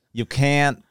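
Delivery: put-on Southern accent, measured out with pauses; Southern American accent. Co-host taking his turn in a put-on Southern accent. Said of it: "do it with a Southern accent".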